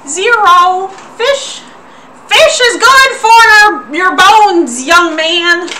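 put-on high, frail old countryside woman; old lady voice. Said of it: "I'm losing my old lady voice real hard".

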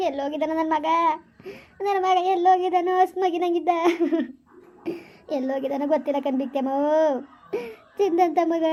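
acted grief, trailing into sobs; sobbing lament. Parent crying over the missing son, sobbing lament. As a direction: wail for a lost child, breaking into sobs.

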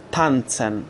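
تانتسن with "ts" in the middle. Shown as a demonstration. Teacher giving an example, تانتسن with t run into s. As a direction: say تانتسن as "tan-tsen".

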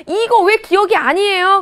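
높고 크게, 느리게 따지는 학생 목소리; 득달같이 달려드는 학생처럼 항의하기; 따지고 드는 학생 흉내. Retold or imitated. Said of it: "득달같이 달려드는 거야". (높은 소리로 따져 묻는 흉내)

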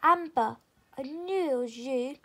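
the fairy calling gladly to her lost sister, loud; joyful shout. A narrator's reading. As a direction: call out her name with joy. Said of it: "she shouted joyfully".

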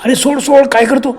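high urgent cry to let her go; sharp frightened shout; shouting stop. A narrator's reading. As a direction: call out in alarm. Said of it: "madam एकदम ओरडलाय".

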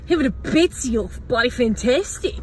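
put-on very broad Australian accent; Farmer Mick. Groom seeing his bride walk the aisle, Australian accent. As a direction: exclaim like the most Australian groom. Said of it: "he was the most Australian Australian".

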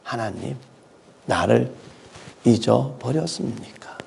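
crying out. Retold or imitated. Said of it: "울면서 부르짖는 거예요".

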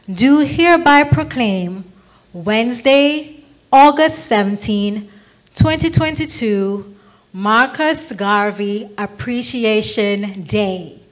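ceremonial proclamation. Real, not acted. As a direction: ring it out like an official decree. Mayor's climactic proclamation declaration.

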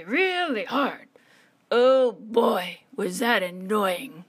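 put-upon tree, stretching the key words; lightly voiced weary palm tree. Tree grumbling to chameleon about the wind, lightly voiced. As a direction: complain about a sleepless, windy night.

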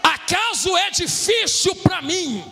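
full-force sermon delivery; impassioned Brazilian pulpit preaching; fervent preaching. Real, not acted. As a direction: preach it hard to the congregation, stretching key phrases.

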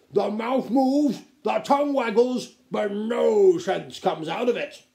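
slow, loud, high-pitched mockery; pompous sneering put-down; scornful duke. A narrator's reading. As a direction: pronounce each phrase with contempt. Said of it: "snapped the Duc".

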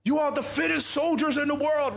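a hint of a general's pep talk; rousing speech. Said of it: "He's trying to rouse you all up".

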